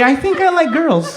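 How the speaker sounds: put-on high, slow girlish voice; middle school girl. Middle school lesbian confessing, high slow voice.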